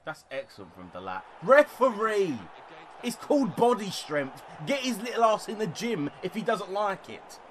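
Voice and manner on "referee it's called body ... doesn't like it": high, indignant rant; ranting at ref. Real, not acted. Gamer ranting at the referee over a foul, indignant. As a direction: complain hotly to the referee.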